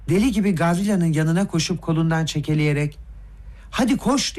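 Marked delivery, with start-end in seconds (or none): 3.7-4.4 urgent shout. A narrator's reading. Ferdişçenko tugs Gavrila toward the fire, shouting. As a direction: urge him on with a raised pitch. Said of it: "diye bağırdı".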